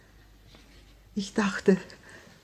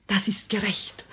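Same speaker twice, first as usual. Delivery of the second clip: mimicked pronouncement. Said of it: "Er sagte".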